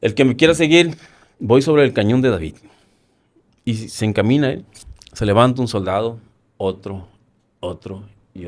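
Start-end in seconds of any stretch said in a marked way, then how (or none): 0.0-2.6 loud, higher rallying call; retold call to the men, raised voice. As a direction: shout for volunteers to follow. Calling soldiers to follow him.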